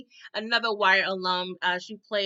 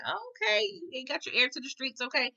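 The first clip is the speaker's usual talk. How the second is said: high mock approval; 5 semitones higher, 3 dB quieter than usual. Vlogger's mock remark.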